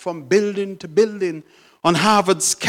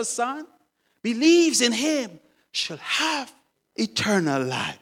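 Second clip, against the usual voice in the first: earnest explaining; 3 semitones higher than usual. Acted. Old man explaining John three sixteen to son, earnestly.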